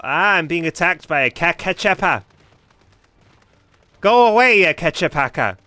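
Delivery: shouting in mock panic; panicked yelling. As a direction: yell for help, high and loud. Mock being attacked.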